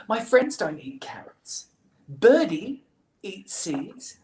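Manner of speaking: hammed-up childish reasoning; protesting child. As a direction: plead the case like a little kid. Betty argues her case.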